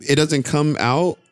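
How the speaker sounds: high-pitched, confused double-checking; surprised questioning. Real, not acted. Partner asking about hair vending machine, real high-pitched surprise. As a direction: blurt it out high, then settle into the question.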